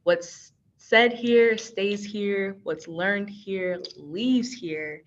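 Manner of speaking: slow, deliberate reading of the rule. Shown as a demonstration. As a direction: read each word out slowly. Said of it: "this first one is".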